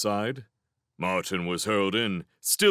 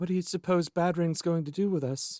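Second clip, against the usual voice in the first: small, quiet, high, soft voice, barely there; 9 semitones higher than usual. An unseen young creature speaking from the dark pit, in a small quiet voice. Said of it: "a small quiet voice echoed hollowly".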